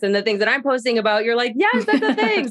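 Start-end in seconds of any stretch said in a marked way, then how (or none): 1.5-2.5 very high-pitched mock-excited quote; hammed-up excited yes; imitated eager agreement. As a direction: act out a friend agreeing with squeaky enthusiasm. Acting out guest's eager agreement.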